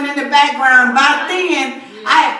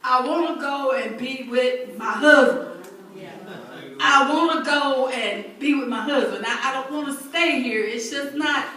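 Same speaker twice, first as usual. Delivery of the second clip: quiet grieving plea; 3 semitones lower, 5 dB quieter than usual. Retold or imitated. Retold grieving plea to God.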